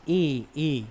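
drawn-out "এ" sound shown on its own; teacher isolating the "এ" sound; sound demo. Shown as a demonstration. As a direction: isolate and draw out "এ" for the class. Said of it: "আগে এ উচ্চারণ আসছে".

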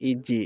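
ইজি with the j echo falling downward; downward articulation. Shown as a demonstration. Teacher explains the sound to students, downward bounce. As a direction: drop the bounce at the end of ইজি. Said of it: "অর্থাৎ নিচের দিকে চলে আসছে".

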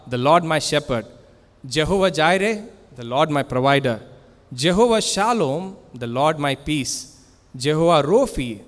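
a rhythmic litany of God's names, name ringing then settling; proclaiming names of God. Acted.

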